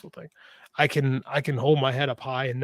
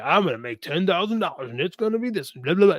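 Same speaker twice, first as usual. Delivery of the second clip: sing-song, higher-pitched mock boast; mock promise; 4 semitones higher than usual. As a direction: rattle off an empty promise, pitch swooping up. Mock promise he says he can't make.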